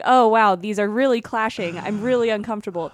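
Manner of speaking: loud, startled "oh wow" easing into discomfort; mock startled reaction. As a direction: act out an overwhelmed listener. Acting out a listener hearing clashing songs.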